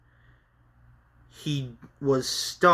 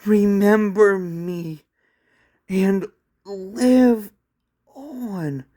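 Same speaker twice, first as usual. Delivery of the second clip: tender farewell; 5 semitones higher, 4 dB louder, slower than usual. A narrator's reading. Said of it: "as Kate smiled".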